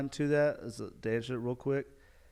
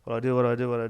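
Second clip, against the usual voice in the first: mock panic; 7 dB louder, much faster than usual. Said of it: "like, hyperventilating".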